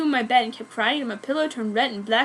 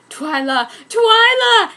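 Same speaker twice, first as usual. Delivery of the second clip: second call much higher and louder; screaming her name; 9 semitones higher, 9 dB louder, slower than usual. Acted. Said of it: "he screamed to my ear".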